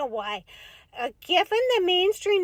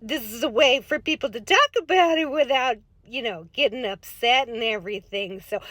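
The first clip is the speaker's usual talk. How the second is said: put-on folksy Minnesota accent, chatty and sing-song; light Upper Midwest accent with long round vowels; Minnesota soccer mom voice; 3 semitones lower than usual. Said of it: "Minnesota soccer mom voice".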